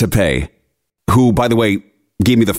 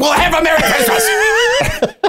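high, slow, laughing mock holiday wish; laughing sarcasm; slower than usual. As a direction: sing it out through laughter, dripping sarcasm. Sarcastic sign-off to tow guy.

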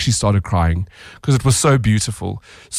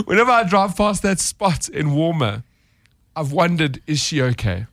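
choked-up quote; 3 semitones higher than usual. Real, not acted. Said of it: "I'm getting a little choked up".

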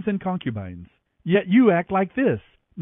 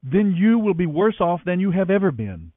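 stern rebuke; 6 semitones higher than usual. A narrator's reading. Joab rebukes the grieving king.

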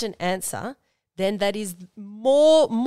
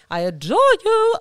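gushing; 14 semitones higher, 9 dB louder than usual. Real, not acted. Gushing sign-off to listeners.

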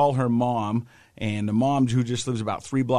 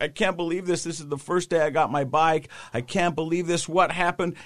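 mildly panicked retelling, pitched higher; imitated freaking out; 5 semitones higher than usual. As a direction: lightly act out a shaken rider's disbelief. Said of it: "and he's freaking out".

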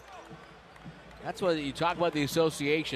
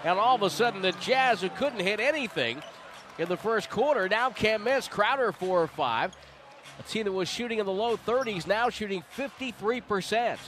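higher, lifted commentator amazement; excited commentary; 5 semitones higher than usual. Real, not acted. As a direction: sell the sudden turnaround. Commentator marvels at the hot shooting.

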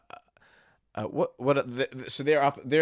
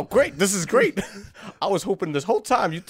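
excited; 7 semitones higher, 3 dB louder than usual. Acted. Delighted henchman gushing.

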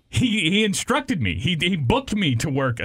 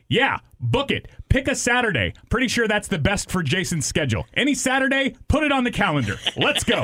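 higher-pitched, gung-ho imitation; retold can-do enthusiasm, pitched up; mock eagerness; 4 semitones higher than usual. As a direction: breezily sign someone else up, hammed-up. Retelling co-worker's eager booking.

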